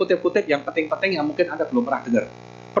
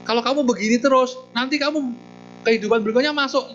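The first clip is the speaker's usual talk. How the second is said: stern scolding monk; 4 semitones higher than usual. Acted. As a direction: lecture the dog like a disappointed master. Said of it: "Dia panggil Todea". (teguran biksu yang tegas dan pelan)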